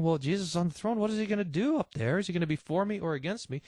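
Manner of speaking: doubting listener. Retold or imitated. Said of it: "if you have this question".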